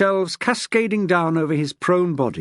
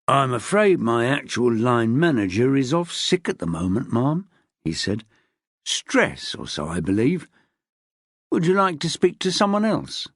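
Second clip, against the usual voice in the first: savouring her frustration; smug desk man; 3 semitones lower than usual. Acted. Desk man stalling smugly.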